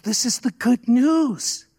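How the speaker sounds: retold joyful insistence, stretched out; emphatic proclamation. Friend's emphatic declaration, retold.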